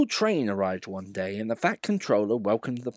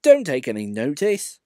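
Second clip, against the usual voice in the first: put-on soothing old engine; calm him down gently; mild soothing; 4 semitones higher, 7 dB louder than usual. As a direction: Edward soothing cross Duck. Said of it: "soothed Edward".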